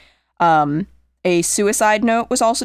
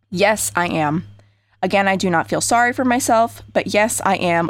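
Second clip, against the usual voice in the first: letter read aloud. Acted. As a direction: read the note steadily and gravely. Reads suicide letter aloud.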